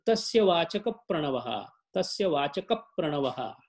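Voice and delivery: "Vachaka" closed with a p into "Pranavaha"; model pronunciation. Shown as a demonstration. Teacher correcting a student's verse, "Vachaka" linked as vachakap to "Pranavaha". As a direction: say "Vachaka" as vachakap, leaning into the Pra. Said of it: "That is how it goes".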